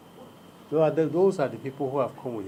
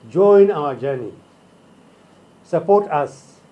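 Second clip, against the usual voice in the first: roaring rallying speech; 7 dB louder, slower than usual. Real, not acted. Appeal to Nigerians at rally.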